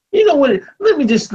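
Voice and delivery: fired up. Real, not acted. Cuts in to make his point.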